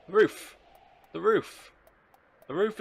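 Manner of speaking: high, loud mock-panic shouts; mock alarm. Raising a false alarm about the roof, loud and high. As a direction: cry out a false fire warning, easing slightly.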